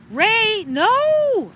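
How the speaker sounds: loud, high alarmed cry; shout. A narrator's reading. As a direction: yell his name to stop him. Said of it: "I shouted".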